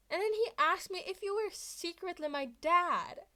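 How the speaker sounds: high, loud gleeful report; excited retelling. Acted. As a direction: spill the news like it's hilarious. Izuku tells Mike excitedly.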